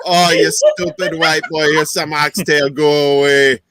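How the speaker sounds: put-on Jamaican accent. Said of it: "I do the Jamaican accent".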